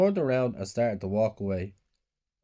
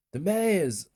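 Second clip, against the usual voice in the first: excited shout; 8 semitones higher than usual. A narrator's reading. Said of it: "I shouted".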